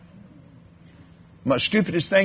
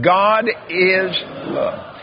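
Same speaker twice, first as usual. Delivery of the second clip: slow drawn-out; 4 semitones higher, much slower than usual. Shown as a demonstration. Preacher leading the congregation to repeat, slowly. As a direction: stretch God is love out slowly. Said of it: "Say that".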